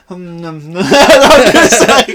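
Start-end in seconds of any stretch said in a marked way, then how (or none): 0.1-0.6 drawn-out moaning murmur, breaking into laughter; imitated sleep moan. Teasing a friend who moaned during the movie, mock sleep moan. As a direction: moan slowly as if asleep. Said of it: "then I just hear you".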